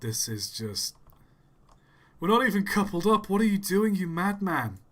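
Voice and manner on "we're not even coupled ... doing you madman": high, loud disbelief; can't believe what he's doing; incredulous. Real, not acted. Incredulous at the other player.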